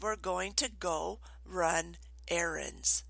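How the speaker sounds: slow, deliberate restatement; measured requote. Retold or imitated. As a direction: repeat it slowly and quietly, spacing out "run errands". Requotes what child misheard.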